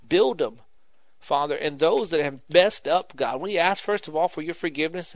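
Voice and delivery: fervent, flowing spoken prayer; earnest prayer. Real, not acted. Preacher praying for struggling families, earnest prayer. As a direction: intercede earnestly, leaning on the key pleas.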